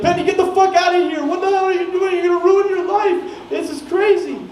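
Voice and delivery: high, urgent shouted scolding; retold frantic yelling. Roommates yelling at friend to get out of the car, retold frantic shout. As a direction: re-enact two freaked-out friends yelling. Freaked-out friends yell at him.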